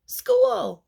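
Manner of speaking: high loud joyful cry; excited shout. Acted. Little girl shouting with joy as she runs to school. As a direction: shout it with pure glee.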